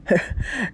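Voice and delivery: short, quiet breathy chuckle; light dismissive laugh; soft chuckle. Acted. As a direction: brush it off with a small laugh. Brother brushes off the worry.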